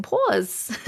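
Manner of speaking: "pause" with a rounded "aw"; New York "aw" vowel in "pause"; Long Island pronunciation. Shown as a demonstration. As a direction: insist on "pause" as "pawz". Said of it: "That's what I'm saying".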